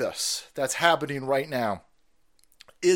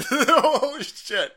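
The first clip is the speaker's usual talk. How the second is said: amazed; 10 semitones higher, 6 dB louder, much slower than usual. Real, not acted. Amazed laugh.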